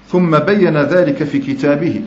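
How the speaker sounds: ثم بين ذلك في كتابه said slowly and deliberately, every word weighed; slow hadith recitation. Shown as a demonstration. Preacher quoting the Prophet's words to students, slowly and deliberately. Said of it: "فقال صلى الله عليه وسلم".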